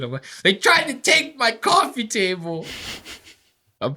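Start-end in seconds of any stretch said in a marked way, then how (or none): 0.4-2.6 much higher put-on movie-star line; Denzel Washington impression. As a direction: deliver it like an action hero with a grudge. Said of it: "I go in there like Denzel Washington".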